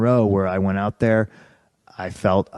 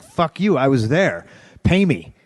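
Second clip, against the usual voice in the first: sharp, high mock shout at the boss; retold angry outburst, pitched up; angry retort; 5 semitones higher than usual. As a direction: snap it back like you're furious. Yelling at Vince in retold fight.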